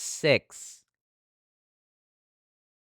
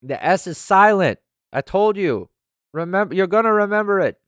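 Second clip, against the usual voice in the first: emphatic insisting; 10 semitones higher, 7 dB louder than usual. Real, not acted. Insisting on a name's pronunciation.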